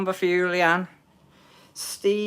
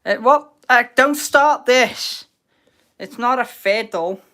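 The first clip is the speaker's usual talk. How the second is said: indignant surprise; 6 semitones higher, 8 dB louder than usual. Real, not acted. Reacting to being accused of cheating.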